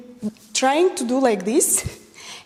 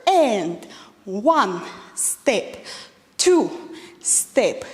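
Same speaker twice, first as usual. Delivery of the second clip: counting steps; much slower than usual. Shown as a demonstration. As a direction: call the counts over the steps. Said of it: "let's do it faster".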